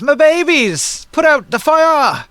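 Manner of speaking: very high, slow, loud wail; screeching giant woman. Acted. Giant mother sees fire in the building, drawn-out screech. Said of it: "lets out a screech and says".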